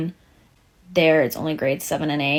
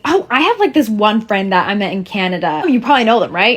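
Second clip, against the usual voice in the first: imitating Americans; 2 semitones higher, faster than usual. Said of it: "You will say".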